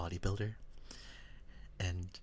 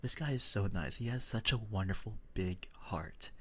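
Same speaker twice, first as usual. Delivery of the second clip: meme voice. Retold or imitated. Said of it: "there's this meme ... where it's like".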